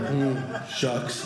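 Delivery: low, subdued mock dejection; feigned upset. Walking away to bait his rich friend, feigned upset. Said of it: "I was upset".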